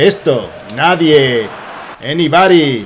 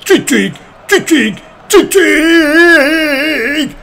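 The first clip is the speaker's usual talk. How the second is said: ecstatic mock commentary; 8 semitones higher, 3 dB louder, slower than usual. Mock commentary celebrating goal.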